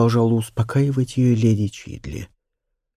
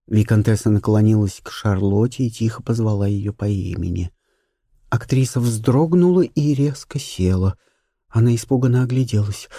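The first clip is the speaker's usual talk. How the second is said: ordinary delivery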